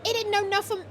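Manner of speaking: hammed-up high-pitched objection; indignant protest. Acts protesting game character.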